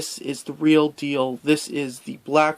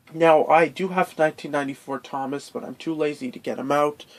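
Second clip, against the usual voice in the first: nasal voice from a cold; stuffy nose. Real, not acted. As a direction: talk through a blocked nose. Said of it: "excuse my nasally voice as I have a bit of a cold".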